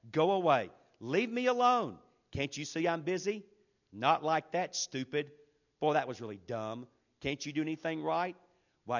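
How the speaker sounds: loud, nagging parent barking orders; harsh parent scolding. Retold or imitated. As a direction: scold like an irritated mom or dad. Preacher voices yelling parents' phrases.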